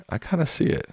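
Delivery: very high playful falsetto; high mock voice. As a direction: pipe it up high, teasing.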